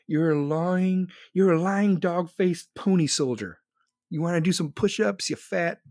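a hint of old Biden, drawn out; imitating Biden. Reading chat's Biden line, slow mock Biden voice. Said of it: "Biden would say".

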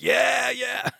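high-pitched carefree yeah, yeah; mocking high yeah yeah. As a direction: toss it off like a careless friend. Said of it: "they're all like".

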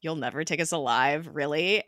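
understated, dry questioning echo; unimpressed mockery. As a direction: quote it back sceptically. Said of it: "May mentions to Coulson how overdramatic".

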